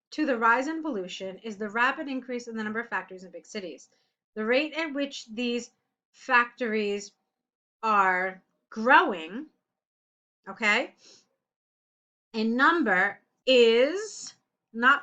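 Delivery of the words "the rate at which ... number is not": slow, drawn-out phrasing; dictating a corrected line to a student; slow dictation. Shown as a demonstration. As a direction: read it slowly so it sinks in. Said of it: "Let's start again".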